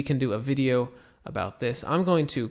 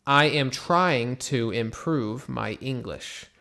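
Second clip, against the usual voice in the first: measured, even and clear; steady repeated model read; slow model sentence again; slower than usual. Shown as a demonstration. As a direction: repeat it calmly for the class. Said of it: "so you could say".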